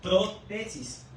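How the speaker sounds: "protesis" slowly split as pro–TESIS; pro-TESIS pronunciation. Shown as a demonstration. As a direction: sound out "protesis" in two slow parts. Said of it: "del propósito en griego es". ("protesis" lento, dividido: pro… TESIS)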